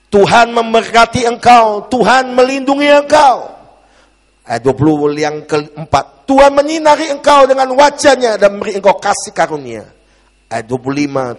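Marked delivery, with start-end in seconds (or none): 0.1-3.6 loud, high, slow declaration; forceful scripture proclamation. Real, not acted. Preacher declaring the blessing from Numbers, forceful proclamation. 6.3-9.9 high, loud declaration; forceful scripture proclamation. Real, not acted. Preacher reading the blessing to the congregation, forceful proclamation.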